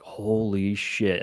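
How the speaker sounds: slow, drawn-out retold amazement; mock stunned disbelief, very slow; starstruck. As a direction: stretch it out as if awestruck.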